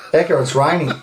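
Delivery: chuckling as you say it; retelling the line with a laugh. Retold or imitated. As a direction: quote it through a laugh. Retold quote, laugh heard.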